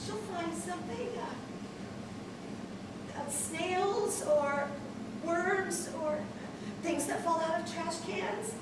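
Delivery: soft, slow comforting voice; reassuring. Acted. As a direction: soothe a worried child gently. Mother soothes child on phone.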